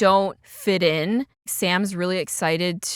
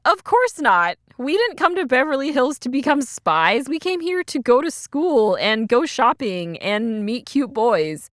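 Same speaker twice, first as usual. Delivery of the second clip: put-on higher, protesting girl voice; indignant girls; 4 semitones higher than usual. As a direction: push back like offended teenage girls. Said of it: "And the girls are like".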